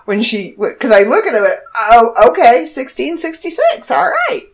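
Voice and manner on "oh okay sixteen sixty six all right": imitating cashier. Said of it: "kind of goes".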